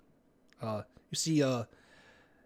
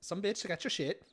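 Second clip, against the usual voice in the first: put-on Valley Girl voice; 5 dB quieter, slower than usual. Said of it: "Valley Girl voice".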